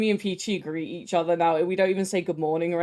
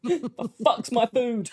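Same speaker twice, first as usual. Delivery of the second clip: laughing demand; 3 semitones higher, much slower than usual. Retold or imitated. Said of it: "You said".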